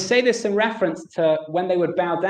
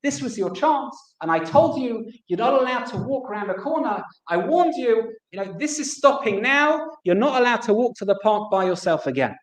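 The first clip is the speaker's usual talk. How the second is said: higher-pitched mock telling-off, not a full scream; retold angry scolding; 4 semitones higher than usual. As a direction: act out an exasperated father losing his temper. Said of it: "Starts screaming".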